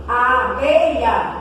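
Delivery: "A abelha" slowly, leaning on "be"; slow teaching demo of "A abelha"; stress on BÉ. Shown as a demonstration. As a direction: stretch out the strong "be" in "abelha". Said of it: "O som forte está no bé".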